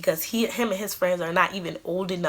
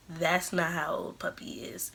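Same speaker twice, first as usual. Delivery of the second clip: whispered, imitating the godbrother gently breaking bad news; soft whisper with the breath only, no voice; 5 dB quieter than usual. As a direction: hush it like a secret you hate to tell.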